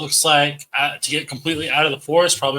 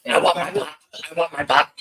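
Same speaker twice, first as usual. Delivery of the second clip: ethereal voice. Acted. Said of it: "It's hear an ethereal voice".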